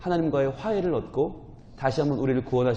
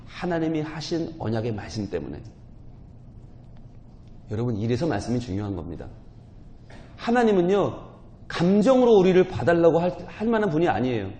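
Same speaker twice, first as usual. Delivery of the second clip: ordinary delivery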